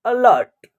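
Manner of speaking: "अलर्ट" opening on a short 'uh'; teacher's model "अलर्ट", A as short 'uh'; short 'uh' sound. Shown as a demonstration. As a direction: sound out "अलर्ट" with a brief schwa first. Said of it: "ए का उच्चारण अ हो रहा".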